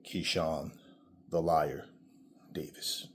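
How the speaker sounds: a scornful whisper of a rival's name; sneering whisper. Real, not acted. Mocking nickname "Keyshawn the Liar.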